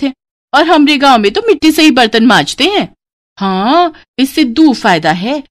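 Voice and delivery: high, lively dialect explanation; village bride explaining. Acted. Brides explain village habits to sister-in-law, lively dialect. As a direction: explain it matter-of-factly like a village girl.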